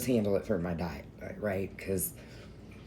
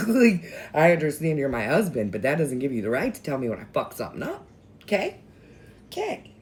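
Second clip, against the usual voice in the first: a loud, higher burst of indignation with a laugh; wife venting about her husband's scolding, loudly indignant; heated rant; 6 semitones higher, 8 dB louder than usual. Real, not acted. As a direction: fire back at him, loud and fed up.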